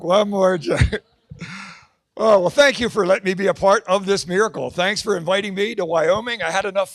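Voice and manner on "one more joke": slow, pressing ask for one more; insisting on one more joke; louder, slow plea. Acted. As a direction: drag out the plea.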